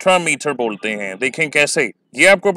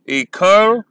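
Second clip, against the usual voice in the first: "Equal" as i-CAL, higher on the second syllable; detached syllable pair, weak then raised strong; third iambic foot; 4 semitones higher, 3 dB louder than usual. Shown as a demonstration. Teacher isolating the third pair for students, second syllable stressed. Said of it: "ये third है".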